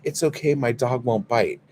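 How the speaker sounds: lightly voiced "nothing to worry about"; mock reassurance. Dog owner telling a screaming kid it's fine, mock reassuring.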